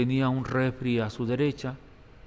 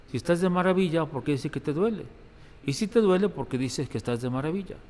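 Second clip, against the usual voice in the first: puzzled retort, pitch jumping up on each "si"; baffled questioning; 3 semitones higher than usual. Retold or imitated. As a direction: question it, genuinely not understanding. Priest acts out his baffled questioning. (perplejo, cuestionando con tono más agudo)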